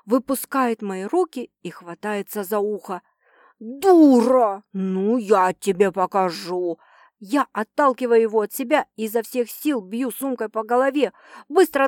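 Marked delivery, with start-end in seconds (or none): 3.6-6.8 angry threat. Acted. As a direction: curse her, then threaten. Bitten producer threatens her.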